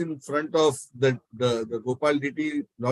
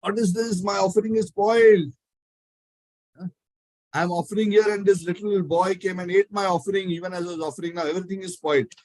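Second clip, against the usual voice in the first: mild mock outrage, higher pitch; imitating an upset priest's protest; retold shouting; 4 semitones higher than usual. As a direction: complain in a raised pitch, without real volume. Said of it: "as he was shouting like that".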